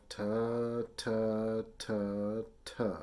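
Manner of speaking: evenly spaced "ta" syllables, each begun with a T; T-tongue syllables. Shown as a demonstration. Teacher has students repeat it to themselves, T-tongued "ta". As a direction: tap out "ta" with the tongue tip. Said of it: "Just say that to yourself".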